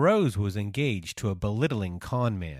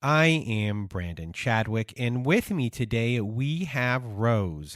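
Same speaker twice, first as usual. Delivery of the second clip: podcast host intro. Acted.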